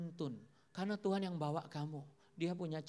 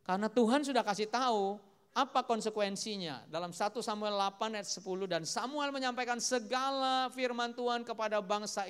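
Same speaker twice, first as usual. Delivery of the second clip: raised scripture-proclaiming voice; forceful preaching; 4 semitones higher, 6 dB louder than usual. Acted. Preacher reads Samuel's message to the congregation, forceful preaching. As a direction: declare it firmly to the congregation.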